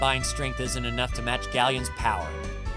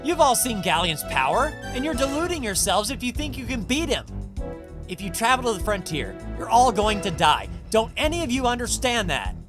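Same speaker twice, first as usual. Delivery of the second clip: raised, urgent pleading; desperate warning; 5 semitones higher than usual. Acted. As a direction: plead urgently to make them understand.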